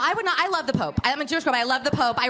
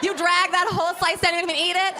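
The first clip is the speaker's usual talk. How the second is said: laughing quote; 7 semitones higher than usual. Retold or imitated. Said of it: "I'm like".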